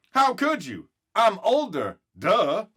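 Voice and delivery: lightly voiced smug older brother; a hint of a know-it-all brother; teasing big brother. Brother taunts his little sister, mildly smug.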